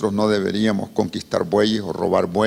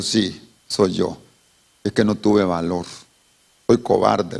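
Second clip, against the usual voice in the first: ashamed admission; 4 semitones lower than usual. Acted. Ashamed brother confesses to the man he wronged, sheepish. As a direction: admit it with your head down.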